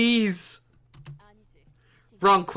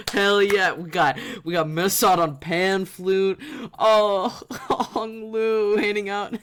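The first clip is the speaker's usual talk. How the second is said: ordinary talk, nothing marked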